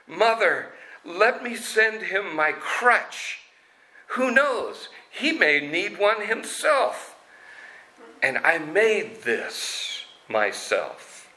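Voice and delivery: put-on high, innocent boy voice; childlike innocence. A narrator's reading. Amal offers his crutch to the kings, high innocent boy. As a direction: offer it like a trusting little boy. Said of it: "in this childlike innocence".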